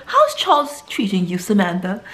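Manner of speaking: lightly mocked posh British accent; Yorkshire pudding accent. Soap character asking Samantha about Charles, mock British accent. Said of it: "that Yorkshire pudding accent".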